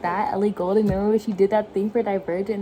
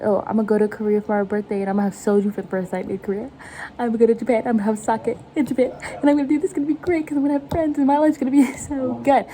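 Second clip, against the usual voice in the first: excited daydream; much faster than usual. Retold or imitated. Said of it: "I'm like".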